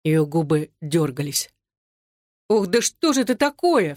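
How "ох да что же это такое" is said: a higher, alarmed outcry; frightened cry. A narrator's reading. Marina cries out at her sick friend, alarmed. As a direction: cry out in sudden dread. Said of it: "вскрикнула Марина".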